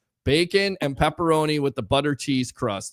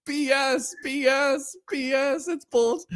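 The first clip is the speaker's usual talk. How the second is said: high-pitched replay of his own rant; retold outburst, pitched up without shouting; mock-indignant, repeating it in a raised pitch; going off; 11 semitones higher, slower than usual. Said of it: "I went off on you".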